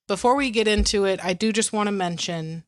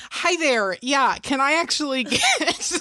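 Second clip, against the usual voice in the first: higher, chirpy drive-thru greeting; customer service voice; 5 semitones higher than usual. Acted. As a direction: chirp it politely like a customer ordering. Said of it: "It's my customer service voice".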